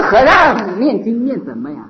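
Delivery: high, taunting no no no; mock the chanting like a heckler; jeering mockery. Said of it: "这样有意在攻击我们，取笑我们". (高声嘲弄地模仿年轻人)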